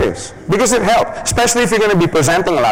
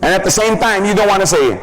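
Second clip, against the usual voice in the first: ordinary delivery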